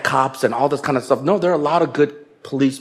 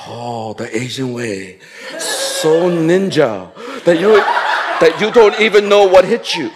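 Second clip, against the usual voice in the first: amused chuckle; slower than usual. Real, not acted. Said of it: "laughing remark on Asian ways".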